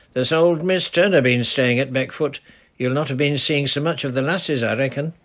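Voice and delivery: put-on easy, friendly old dialect voice; lightly voiced old charcoal burner greeting a girl. Old man talks.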